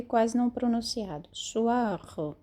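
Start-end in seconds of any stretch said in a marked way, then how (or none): 1.3-2.4 "Soir" with a soft French R and a barely sounded final vowel; teacher models "Soir" with a subtle R and a faint ending. Shown as a demonstration. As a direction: say "Soir" quickly, the R light and the last vowel nearly silent. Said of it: "a gente fala o R e o O, bem sutil, bem rápido, bem suave".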